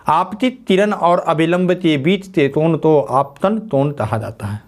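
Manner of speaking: slow it down so they can write it. Shown as a demonstration. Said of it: "लिख लीजिए".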